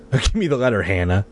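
put-on quietly insistent ghost boy; soft insistence. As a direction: ask gently yet press. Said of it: "softly but insistently".

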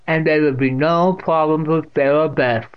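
put-on deaf old aunt, disapproving. A narrator's reading. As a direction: finish the matter loudly.

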